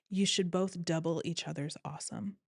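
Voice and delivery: put-on laid-back Hawaiian surfer accent, lightly done; Hawaii surfer boy. Friend's wedding advice in a light Hawaiian surfer accent. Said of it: "Hawaii surfer boy, put that accent in your brain".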